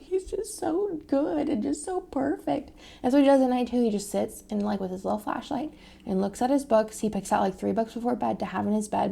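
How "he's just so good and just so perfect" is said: high, tender gush over her son. Retold or imitated. Mother gushing about her son, tender and high. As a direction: melt over how perfect he is. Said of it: "I'm just, like, sitting here and I'm like".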